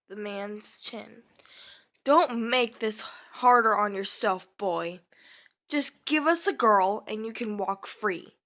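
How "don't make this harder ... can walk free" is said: louder, venomous threat; venomous hiss. Acted. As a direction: spit the words with venom. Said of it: "the man hissed in venom".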